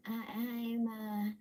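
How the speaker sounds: slow, drawn-out words leaping high at the end; murmured dream line, climbing to a high finish; sleep-talking Janine. Acted. Janine in the sleeping sequence, slow sleep-talk rising high. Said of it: "the sleeping sequence where she's".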